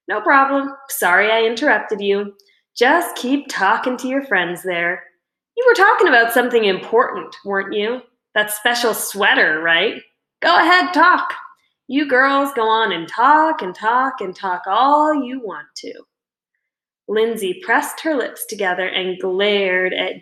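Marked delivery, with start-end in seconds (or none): 0.1-10.0 sarcastic, needling sing-song; mocking taunt. The speaker mocks Lindsay about her chatter, sarcastic taunt. 10.4-11.3 higher, louder sarcastic push; goading. Acted. The speaker goads Lindsay to keep talking, mocking push. 11.9-15.9 sarcastic, needling sing-song; mocking taunt. The speaker mocks Lindsay about her chatter, sarcastic taunt.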